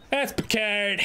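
put-on playful accented "Picard"; mock accent. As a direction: say "Picard" with a flattened foreign vowel. Repeats it in character voice.

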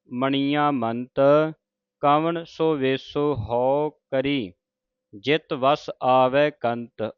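measured, slow, devout reading of the verse; slow scripture recitation. Acted. Teacher reciting Farid's shalok to the sangat, slow and devout. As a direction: chant each phrase carefully with pauses.

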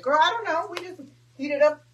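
casual friend spilling kitchen secrets; friend's reply. Retold or imitated. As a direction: toss it off like a shrugging waitress. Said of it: "She's like".

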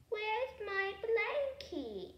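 drawn-out loud cry, high; calling out loud. A narrator's reading. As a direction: call out for the lost blanket. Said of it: "Alice said".

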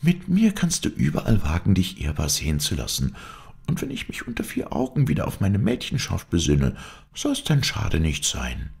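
lightly voiced, playful young woman. Heroine in disguise promising her lover rewards, playful. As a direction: tease the lover with a lifted voice.

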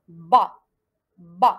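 "ba" low, loud and firm; syllable demonstration. Shown as a demonstration. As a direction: model "ba" as one emphatic low syllable. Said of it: "comment je vais prononcer cette syllabe?".

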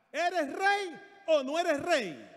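loud, high, slow challenge; forceful scolding shout; Jezabel confronting the king. Acted. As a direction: throw the question in his face. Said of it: "mira cómo le enfrentó".

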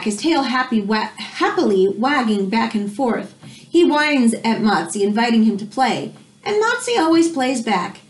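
gentle storybook narration; reading to children. Acted. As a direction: read it like story time for a class. Reads picture book to class.

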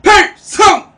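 sharp high shouted salute; military shout. Shown as a demonstration. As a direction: snap it out loud. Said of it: "나 봐라".

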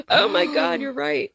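sharp gasp, then high-pitched discovery; mock shocked realization. Answering those who call her an anarchist, mock shocked. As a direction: gasp and feign a sudden revelation.

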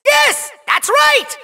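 high, drawn-out showman's cry; triumphant shout. Acted. Villain hosts the big reveal, triumphant shout. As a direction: crow it like a game show host. Villain host announces the winner's prize.

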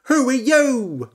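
high, loud, slow question; frog asking. A narrator's reading. Frog calling up to the chicken, high and loud. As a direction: call up to the big chicken. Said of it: "said the frog".

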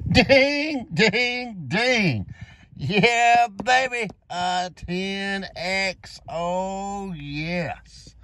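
excited celebration. Real, not acted. Winning ticket celebration.

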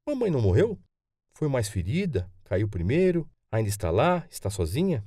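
lightly voiced boy, high first question; a touch of a child's concern, question after question; worried young grandson. Boy asks whether his mother is alone, mild worry.

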